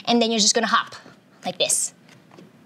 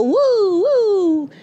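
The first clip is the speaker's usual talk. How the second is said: excited cheer; 11 semitones higher, 5 dB louder than usual. Real, not acted. Cheering while balancing.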